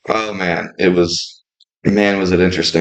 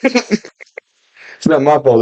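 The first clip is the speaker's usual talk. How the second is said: slow mocking drawl; mocking slow whine; 4 semitones higher, much slower than usual. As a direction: drag it out, teasing. Mocks friend's excuse.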